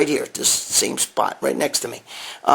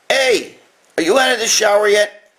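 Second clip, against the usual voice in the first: raised voice, higher, calling to another room; 6 semitones higher than usual. Real, not acted. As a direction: shout it toward the shower down the hall. Calling out to girlfriend in shower.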